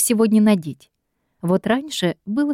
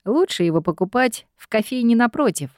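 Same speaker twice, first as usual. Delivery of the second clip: wrinkled-nose disdain; 4 semitones higher than usual. Acted. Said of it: "Он изменил тон и поморщился".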